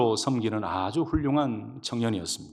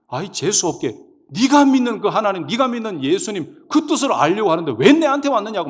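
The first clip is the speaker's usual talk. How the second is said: loud, high irritated telling-off; scolding fortune-teller; 8 semitones higher, 7 dB louder than usual. Retold or imitated. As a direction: send them away with an angry, raised voice. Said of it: "야단을 치면서 막 재수 없다라고".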